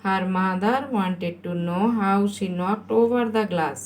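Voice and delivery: very slow, measured dictation. Shown as a demonstration. Teacher waits for pupils to write, very slow dictation. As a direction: stretch the sentence right out.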